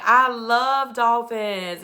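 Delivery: slow, drawn-out gushing; uber excited, imitated. Man gushing to his date about dolphins, imitated excitement. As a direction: stretch out the mock enthusiasm. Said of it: "so he gets uber excited".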